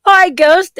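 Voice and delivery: bright high pet greeting. Real, not acted. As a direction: coo hello to the pet.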